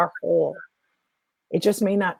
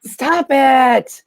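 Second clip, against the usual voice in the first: louder stern stop it; 6 semitones higher, 5 dB louder than usual. Retold or imitated. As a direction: Stop it, higher and louder, no brogue. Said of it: "it was with an Irish brogue".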